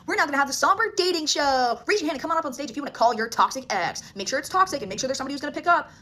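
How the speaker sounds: loud, high mock show-host announcement; singer hyping a crowd. Singer inviting fans onstage, loud mock announcer hype. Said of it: "he cuts all the music and he's like".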